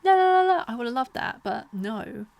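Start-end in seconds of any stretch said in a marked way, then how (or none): 0.0-0.6 high, sing-song mock thank-you; mock gracious author. What she should have said to buyers, high mock gushing. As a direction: gush in a high fake-sweet voice. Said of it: "Just like a".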